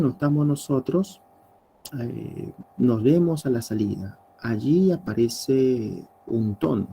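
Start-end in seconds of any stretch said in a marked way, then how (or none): 2.8-4.2 a light, friendly see-you-later. Shown as a demonstration. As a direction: say it like a casual goodbye to a friend. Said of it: "Un tono de amabilidad".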